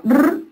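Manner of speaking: "r" as a held trill, not the letter name; isolated phoneme. Shown as a demonstration. Teacher taking a sound out of carpa, isolated phoneme. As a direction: roll a long "r" on its own. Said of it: "le quitamos el sonido".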